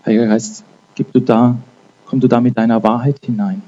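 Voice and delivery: fervent spoken prayer to the Holy Spirit; earnest prayer. Acted. Preacher inviting the Holy Spirit over his listeners, fervent prayer. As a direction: pray it out over the room, rising in fervor.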